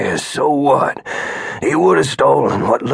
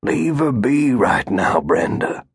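gentle suggestion. Acted. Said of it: "Gus suggested".

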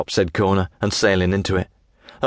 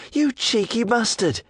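put-on high, slow young woman retort; offended lass; 13 semitones higher, slower than usual. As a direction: drag it out, pitched up, indignant. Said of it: "she yells".

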